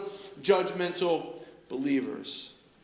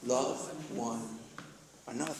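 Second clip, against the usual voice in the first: prompting the congregation; 9 semitones lower, 12 dB quieter than usual. Shown as a demonstration. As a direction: let them finish the words. Congregation completes the verse.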